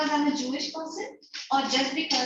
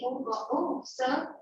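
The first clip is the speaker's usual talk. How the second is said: softer, mock-servile address; humble voice; 5 dB quieter than usual. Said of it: "with a humble, uh, voice".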